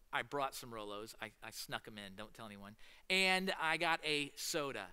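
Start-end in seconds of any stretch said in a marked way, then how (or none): 0.1-2.8 conspiratorial hush. Real, not acted. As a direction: drop to a secretive near-whisper. Don't tell anyone.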